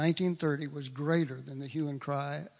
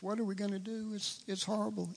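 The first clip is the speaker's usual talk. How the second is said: hand-wringing; 5 semitones higher, 4 dB quieter, faster than usual. Retold or imitated. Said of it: "I wring my hands, I gnash my teeth".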